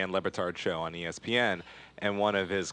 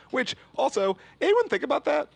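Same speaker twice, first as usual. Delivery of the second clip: incredulous; 3 dB louder than usual. Real, not acted. Incredulous rhetorical question.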